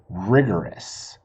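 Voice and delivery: rigorous, drawn out slowly with the last s held; stress on rigorous. Shown as a demonstration. Teacher savouring the new word rigorous for the kids. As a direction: lean into rigorous, savour each syllable. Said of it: "This is a great word".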